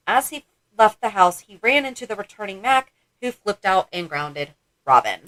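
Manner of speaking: even read-aloud narration from a book; measured book-excerpt reading. Real, not acted. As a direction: read the passage out plainly, phrase by phrase. Reads passage from the book.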